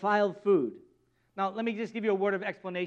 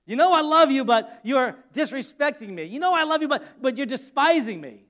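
rising, louder pleading God; building emphatic God; 3 semitones higher, 5 dB louder than usual. Acted. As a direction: press harder each time. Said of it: "God ... look across the table".

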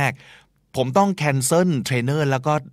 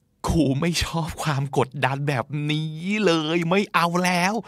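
mock protest; 4 semitones higher than usual. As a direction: act out not wanting the pressure anymore. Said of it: "ตลอดเวลาสองวีคนั้นคือแบบ". (บ่นโอดครวญแบบล้อตัวเอง เสียงสูงลากยาว)

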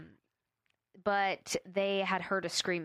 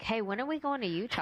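casual; 4 semitones higher, faster than usual. Retold or imitated. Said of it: "So casually".

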